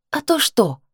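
challenging question, pitched high; a touch of defiance; defiant. A narrator's reading. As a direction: throw it back at him as a dare. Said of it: "с вызовом спросила я".

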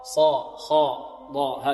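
slow صا خا ضا, heavy with open lips; correct open letters. Shown as a demonstration. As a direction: say them slowly with unrounded lips. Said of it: "هكذا". (التفخيم الصحيح)

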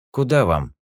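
a tired cabbie asking; taxi driver. Acted. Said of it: "спросил таксист".

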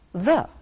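the said short and light as "thuh"; unstressed the. Shown as a demonstration. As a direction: soften the down to a quick "thuh". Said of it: "and pronounced".

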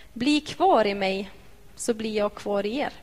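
slow, weighty reading of "Bli kvar i mig"; slow scripture reading. Shown as a demonstration. Preacher reading Jesus's words to the congregation, slow and weighty. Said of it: "Det står så här".

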